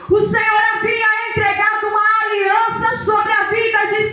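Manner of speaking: forceful, ringing sermon delivery with stretched key words; impassioned preaching. Acted. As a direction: preach it with full conviction to a congregation.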